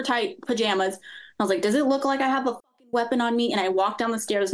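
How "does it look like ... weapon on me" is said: retold anger. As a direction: act out an exasperated challenge, pitched up. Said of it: "I was so mad".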